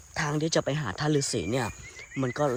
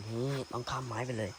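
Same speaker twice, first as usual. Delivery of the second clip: ordinary delivery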